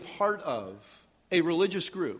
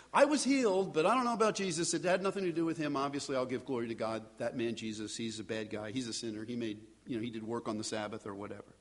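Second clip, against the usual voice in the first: mock forced confession; 4 semitones lower than usual. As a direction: rush the denial, then drop it to a hush. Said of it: "want this man to say".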